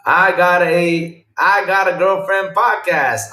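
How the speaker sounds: slow, loud proud announcement; loud drawn-out reveal; excited announcing. Real, not acted. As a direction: read the title out loud and slow like a headline. Reading out new podcast name.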